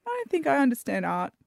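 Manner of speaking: a half-hearted crying wail; mock wail. Guest giving up on the show, mock wail. Overwhelmed punchline.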